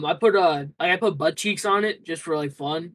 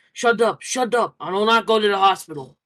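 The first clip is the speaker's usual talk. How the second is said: higher, louder mock snapping at friends; imitating angry refusal; 4 semitones higher, 4 dB louder than usual. Streamer retells sick friend yelling to be left alone, mock angry. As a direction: act out the friend's irritated refusal, raised and loud.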